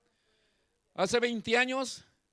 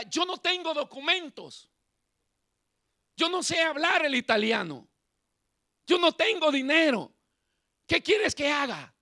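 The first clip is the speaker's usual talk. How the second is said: complaining to God; 4 semitones higher, 4 dB louder than usual. Retold or imitated. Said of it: "le gritaba como reclamando".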